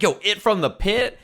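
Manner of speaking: high, excited mock scream of the catchphrase; hyped-up high catchphrase yell; imitating a hype yell. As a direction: shout it like a pumped-up friend. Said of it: "he just kept screaming it".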